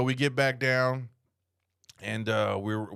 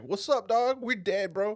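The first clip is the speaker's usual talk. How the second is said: lightly voiced cartoon muscles, pitched up; a higher put-on voice for worn-out muscles; talking leg muscles; 7 semitones higher than usual. Leg muscles greeting their owner, lightly voiced higher.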